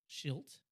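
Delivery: "shilt" said as one syllable, sh- onto -ilt; blended word. Shown as a demonstration. Showing the co-host the slip, "shilt" as a blend. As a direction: blend shame and guilt into "shilt". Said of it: "take the beginning of shame and the end of guilt".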